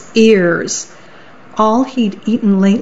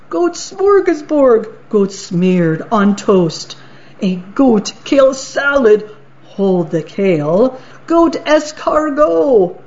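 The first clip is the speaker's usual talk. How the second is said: gleeful troll. Acted. Troll gloats to the goat about eating him, gleeful. Troll sings his menu.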